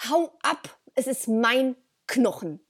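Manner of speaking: defiant, possessive warning in a dog's role; emphatic, mock-bratty refusal to share; cheeky dog. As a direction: play an insolent dog guarding its bone. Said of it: "einfach rotzefrech ist und sagt".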